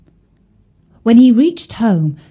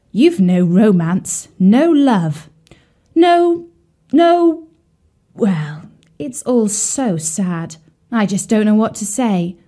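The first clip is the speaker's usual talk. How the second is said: dramatic lament. Acted.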